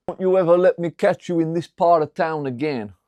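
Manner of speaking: put-on menacing Italian mobster accent. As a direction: warn him off in a thick Italian accent. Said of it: "What do you think of my Italian accent?".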